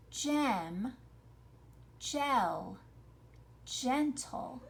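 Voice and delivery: GEM, GEL, GENTLE as separate words with the E heard; enunciated for listening. Shown as a demonstration. Teacher has pupils listen for the E, enunciated. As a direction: sound out Gem, gel, gentle, pausing between.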